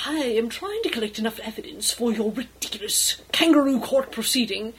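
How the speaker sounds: mildly exasperated retort; contained frustration, stressing the complaint; frustrated. Acted. Flustered captain to Edmund about the trial, frustrated. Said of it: "the captain flushes frustratedly".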